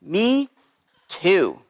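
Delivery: put-on young kangaroo. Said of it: "the young kangaroo in her pouch said".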